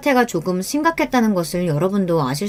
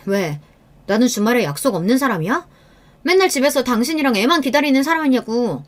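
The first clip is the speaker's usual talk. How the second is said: annoyed retort, climbing higher; irritated anger; 4 semitones higher than usual. Acted. Wife reacting touchily to husband's question, irritated. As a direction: build from curt question to high complaint. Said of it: "화를 내고 짜증을 내면".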